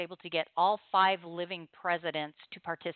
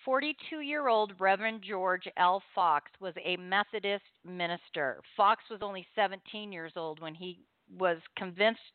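measured read-aloud narration; story reading. Acted. Radio host reads a chaplains' story to listeners, solemn narration.

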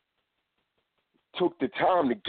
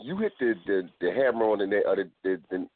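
stumbling over the words; tripping over repeated words; stuttering; 3 semitones lower than usual. Real, not acted. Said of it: "I'm stuttering on today".

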